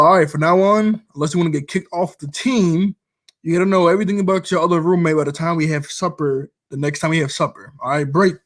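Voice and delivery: imitating a strict coach; coach orders. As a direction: lay down the law to the team. Coach laying down rule.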